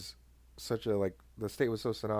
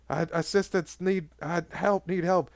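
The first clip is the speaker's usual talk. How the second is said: mock scared officer; 6 semitones higher, slower than usual. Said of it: "was scared".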